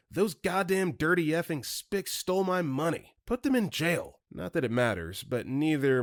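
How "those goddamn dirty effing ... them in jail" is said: high-pitched ranting, no real shout; mock angry yelling. A narrator's reading. Irate customer ranting to police about stolen money, mock yelling. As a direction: rant it high, like an outraged customer. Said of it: "She starts yelling about how".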